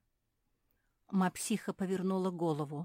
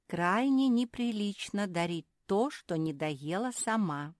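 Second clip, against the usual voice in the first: prim rebuke; 4 semitones higher, 4 dB louder than usual. Acted. Fenya scolding Zefirka about the gift, prim rebuke. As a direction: scold her primly. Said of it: "сказала Феня".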